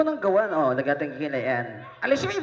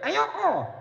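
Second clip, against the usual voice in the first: shouted refusal; 6 semitones higher than usual. Acted. Puppet refuses to greet.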